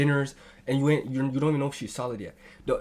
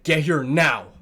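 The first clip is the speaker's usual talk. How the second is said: loud burst of a mock order; mock demand; 7 dB louder, slower than usual. Repeating a man's needy text, loud mock demand. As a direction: punch out the order in mockery.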